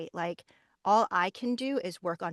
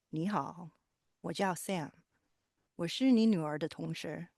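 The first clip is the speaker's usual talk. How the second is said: male voice. Shown as a demonstration. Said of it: "a male voice, and then also Mandarin".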